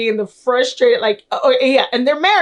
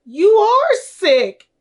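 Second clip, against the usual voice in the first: higher, louder, very slow mock delivery; deadpan Henry line; 9 semitones higher, 4 dB louder, much slower than usual. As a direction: drag each word out like a shocked father. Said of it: "the best line he says is".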